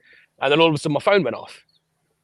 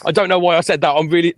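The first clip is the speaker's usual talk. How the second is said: high, loud flustered sorry; frantic over-the-top apology, pitched up; panicked apology; 6 semitones higher, 6 dB louder than usual. Retold or imitated.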